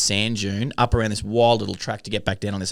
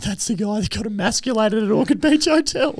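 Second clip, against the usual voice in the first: high, amused retelling; laughing as he points him out; teasing aside; 13 semitones higher than usual. Retold or imitated. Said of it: "I was saying".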